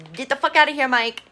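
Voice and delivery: high, loud gleeful send-off; playful loud get out; mock yell. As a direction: shout him out of the villa.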